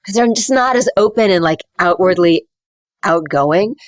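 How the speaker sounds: London-style English accent, jaw closed; private-sounding British English. Shown as a demonstration. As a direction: demonstrate a reserved English accent kept inside the mouth. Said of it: "then you go to London".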